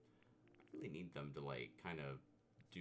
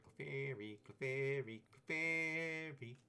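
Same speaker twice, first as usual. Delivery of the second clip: high sing-song Clefairy cry; Pokemon cry; 8 semitones higher, 6 dB louder, slower than usual. Pretend. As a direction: call out its name like the creature.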